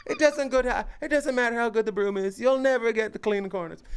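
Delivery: high, loud put-on Asian accent, laughing through it; mock Asian accent. Retelling comedian's punchline to cohost, mock Asian accent. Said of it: "'cause he did it in an Asian accent".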